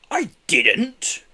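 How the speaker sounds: whispered protest. A narrator's reading. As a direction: hiss out the denial. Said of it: "he protested".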